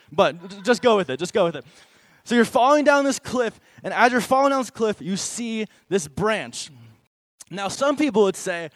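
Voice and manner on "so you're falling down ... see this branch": dramatic storytelling. Acted. Cliff picture, building to climax.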